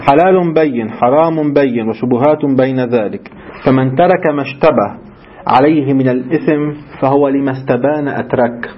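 measured reading of a sacred text; formal recitation. Acted. Teacher reading a narration to his students, formal recitation. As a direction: recite it clearly, drawing out phrase ends.

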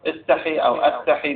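استحي as "istahi", أستحي as "astahi"; first an i onset, then an a onset: استحي, أستحي; two alternative readings. Shown as a demonstration. Teacher offering both readings of the hadith, استحي "istahi" or أستحي "astahi". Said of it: "ما أدري شلون أقرأها".

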